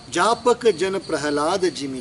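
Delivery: slow, measured scripture quote; verse recitation. Real, not acted. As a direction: recite the line slowly before explaining it. Recites verse before explaining it. (धीमा चौपाई पाठ)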